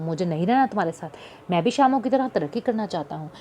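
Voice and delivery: curt, cold insolence, rushing through the middle; defiant son walking out, coldly rude; insolent and cold. Acted. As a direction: brush them off, fast and dismissive. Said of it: "इंतहाई ढिठाई और बेरुखी से".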